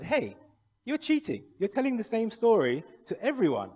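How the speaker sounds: very high, loud mock protest; retold indignant accusation. Friend catches the janitor repeating himself, high protest. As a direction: call him out in an imitated outcry.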